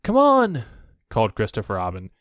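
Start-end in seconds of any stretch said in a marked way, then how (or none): 0.0-0.6 high loud call. A narrator's reading. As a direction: shout it up the line. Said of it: "There was a shout".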